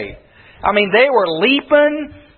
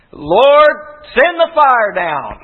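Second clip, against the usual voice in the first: calling out; slower than usual. Retold or imitated. Prophets calling on their gods.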